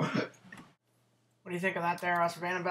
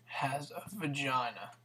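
whisper; 6 dB quieter than usual. Real, not acted. Whispered prank line.

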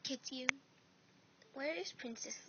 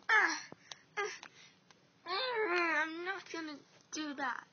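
crying; 3 semitones higher, 8 dB louder than usual. Acted. Pained crying refusal.

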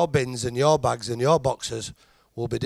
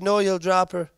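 woman refusing; 5 semitones higher than usual. Acted. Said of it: "She said".

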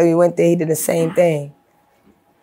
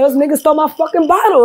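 retold angry outburst; 9 semitones higher than usual. Telling Brooklyn friends about theft.

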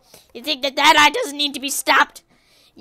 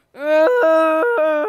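frustrated groan; 3 semitones higher, 7 dB louder than usual. Real, not acted. Groans over spent Robux.

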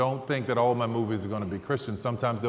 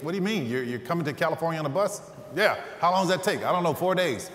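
agent's voice pitched higher, pushing; exasperated agent; 5 semitones higher than usual. Retold or imitated. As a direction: push back like a baffled agent. Agent arguing about the bus.

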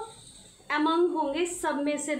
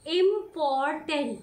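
इंपॉर्टेंट said slowly, syllables apart; showing the syllables in इंपॉर्टेंट; drawn out; slower than usual. Shown as a demonstration. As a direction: stretch इंपॉर्टेंट to show its breaks. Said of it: "कितना सारा break आ रहा है".

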